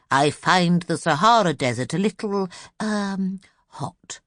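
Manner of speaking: lightly voiced vague old professor; absent-minded professor. The Professor musing to Miss Lark, a lightly voiced vague old man. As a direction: wander through the words, a touch lost.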